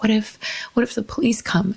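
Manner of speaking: hushed, worried whisper; scared whisper. Retold or imitated. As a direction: whisper it like you're afraid to be caught. Fearful question on a beach.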